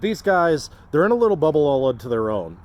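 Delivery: talking loud over the wind. Real, not acted. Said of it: "you can hear me over the wind".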